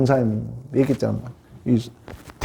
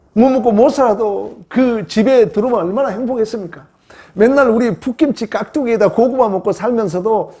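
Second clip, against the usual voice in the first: lively, raised preaching voice; impassioned preaching; 9 semitones higher, 5 dB louder than usual. Real, not acted. Preacher reminding congregation of a happy poor home, impassioned. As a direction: preach it with rising fervour.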